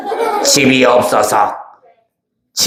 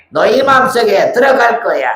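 much higher, teasing threat; high menacing demon; 11 semitones higher than usual. Acted. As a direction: loom over them with a shrill threat. Demon repeats threat to children.

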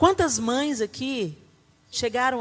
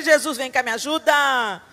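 mock desperate plea; 2 semitones higher, 5 dB louder than usual. Mother recalling the hard years, mock desperate plea. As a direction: beg Jesus half-joking.

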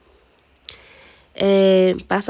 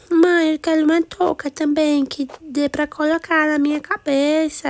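put-on higher kid voice begging mom; little girl pleading for a cap; child asking; 5 semitones higher than usual. Daughter asks mom for cap.

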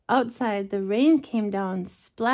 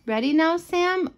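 mother bear voice; 7 semitones higher than usual. Acted. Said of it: "said Sam".

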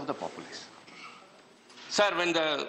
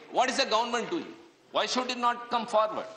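higher, pressing rhetorical question; heated parliamentary challenge; indignant demand; 6 semitones higher than usual. Real, not acted. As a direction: demand an answer from the government, pitch up. Repeated question, rising indignation.

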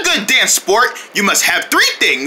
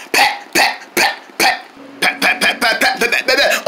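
whispered beat. Acted. Awkward dance beat.

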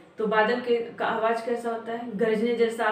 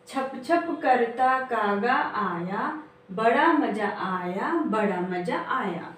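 put-on slow, sing-song rhyme for children; slow poem recitation; slower than usual. Shown as a demonstration. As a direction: chant each line slowly for the class. (धीमी लय में कविता पाठ)

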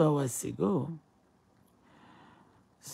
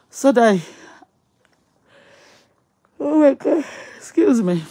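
words stretched through a big yawn, higher and louder; 10 semitones higher, 12 dB louder than usual. Real, not acted. Host yawning mid-story to her live viewers, yawning talk. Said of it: "I'm yawning".

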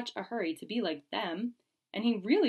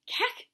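gasped cack. Acted. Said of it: "he gasped".

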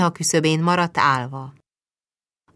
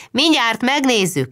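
calls down from the loft, higher and louder; calling down; 8 semitones higher, 4 dB louder than usual. A narrator's reading. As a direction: shout it up from the attic to the yard. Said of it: "kiabált le Báthori úr".

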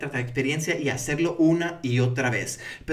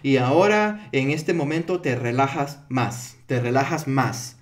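slow, measured script reading of a hypnosis induction; leyendo un guión; slower than usual. Shown as a demonstration. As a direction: read it slowly off the script. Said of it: "estamos leyendo un guión, ¿verdad?". (leído de un guion, lento)

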